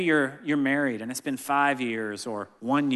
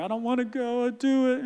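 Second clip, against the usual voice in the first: put-on small child voice; 9 semitones higher than usual. Imitating hesitant small son.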